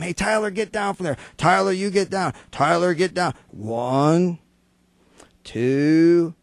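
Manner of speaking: lightly hammed-up fed-up parent; mock parent yelling. Parent in the mall yelling at the wild kid, mock scolding yell. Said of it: "the parents are yelling at him".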